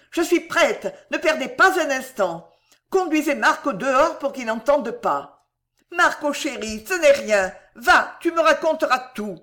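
high and loud, pressing on; hurried urgency. A narrator's reading. Mother urging the doctor to operate now, urgent. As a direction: rush the doctor, resolved and eager. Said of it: "se tournant vers le docteur précipitamment".

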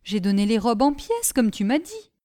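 simple lad reporting proudly; lightly voiced Gribouille. Gribouille speaks to his sister. (garçon naïf, voix légèrement plus aiguë)

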